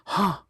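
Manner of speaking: sharp startled gasp; huge gasp. A narrator's reading. Frozen with terror at the caller's words, sharp gasp. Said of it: "makes a huge gasping sound".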